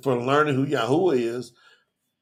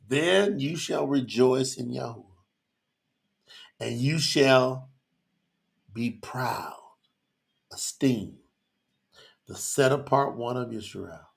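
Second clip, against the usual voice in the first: choked-up scripture, sinking low and quiet; halting, with heavy pauses between phrases; emotional reading; 3 semitones lower, 4 dB quieter, slower than usual. Real, not acted. Preacher reading Yahuwah's promise to Yisrael, emotional and halting. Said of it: "y'all know that was emotional".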